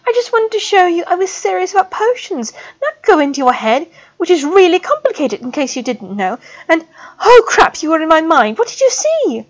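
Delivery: words tumbling out in panic; panicked babbling. A narrator's reading. Student babbles in panic to the professor, high and fast. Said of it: "babbled as coherently as she could".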